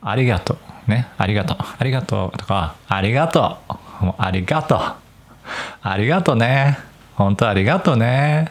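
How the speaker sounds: Nagoya grandparents' thanks. Retold or imitated. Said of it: "強い名古屋弁を話す人".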